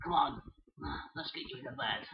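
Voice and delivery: soft, low whispered words; whispering while tucking the toy into bed. Pretend. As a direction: whisper as if someone is asleep. Tired toy put to bed.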